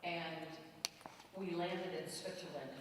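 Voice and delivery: usual speaking voice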